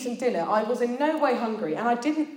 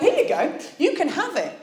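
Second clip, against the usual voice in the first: put-on obedient child; 8 semitones higher, 5 dB louder than usual. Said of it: "I'm an obedient child".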